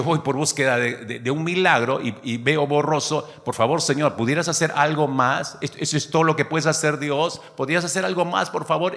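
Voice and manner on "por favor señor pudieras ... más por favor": pleading prayer. Pretend. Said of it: "Empezaría a clamar".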